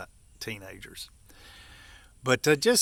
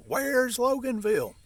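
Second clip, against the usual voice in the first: high, louder mock wonder; mock puzzled question; 13 semitones higher, 4 dB louder than usual. Sneering at the dealer's small town with high mock puzzlement. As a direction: ask it way up high as if baffled.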